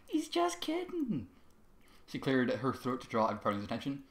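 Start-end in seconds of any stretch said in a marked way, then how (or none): 0.1-1.3 nervous. Acted. Bloom nervously covers for Trevor.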